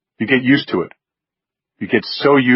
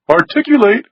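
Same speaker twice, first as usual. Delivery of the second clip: higher, crisp phone greeting; Wynn's voice; 13 semitones higher, 4 dB louder than usual. A narrator's reading. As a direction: answer with a lofty single word. Wynn answers phone.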